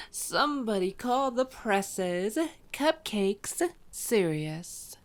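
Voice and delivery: slow, drawn-out sarcastic announcement; mock them slowly; sarcastic mockery. Vampire mocking the serious hunter, slow sarcasm.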